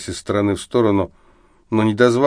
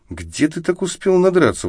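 higher, impressed, half-amused question; admiring surprise; 9 semitones higher than usual. Acted. Volya asking drunk friend, admiring and amazed. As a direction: marvel at how drunk he got. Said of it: "восхищённо спросил Воля".

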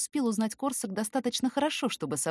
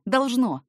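Должно said louder, higher, final; emphatic repeat; 5 semitones higher, 6 dB louder than usual. A narrator's reading. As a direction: hit Должно hard and firm.

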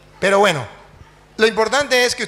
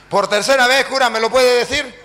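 raised, louder demand; insistent pastor; 5 semitones higher, 4 dB louder than usual. Acted. Pastor asks the priest a third time, loudly insistent. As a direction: press the question home in a higher voice.

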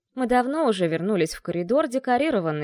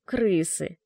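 hissed through teeth; 2 semitones lower than usual. Acted. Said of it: "сквозь зубы прошипела я".

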